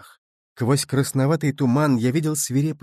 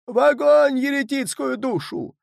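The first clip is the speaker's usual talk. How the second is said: much higher, louder furious shout; frenzied yell; 12 semitones higher, 4 dB louder than usual. A narrator's reading. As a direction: scream for the heretic to burn. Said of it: "неистово орёт". (неистовый крик, гораздо выше)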